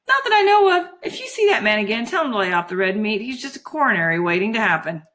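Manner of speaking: put-on girlish and breezily frank; artless, chatty candour; mesmerised Juliet, blithe. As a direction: hand out cheeky advice airily.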